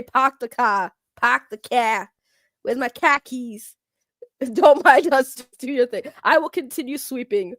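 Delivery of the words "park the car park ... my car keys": put-on Boston accent. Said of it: "always say".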